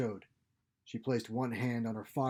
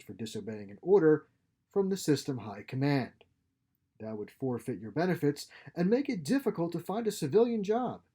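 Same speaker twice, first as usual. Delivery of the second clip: a hint of a commanding superior; lightly voiced captain, veiled threat; 2 semitones higher, 4 dB louder than usual. Captain warns his lieutenant of lost benefits, veiled threat. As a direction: deliver a veiled threat with official authority.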